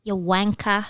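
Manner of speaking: put-on British accent. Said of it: "some British".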